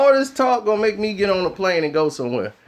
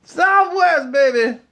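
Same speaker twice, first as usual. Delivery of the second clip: excited slogan; 5 semitones higher, slower than usual. Acted. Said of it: "ad-like catchphrase".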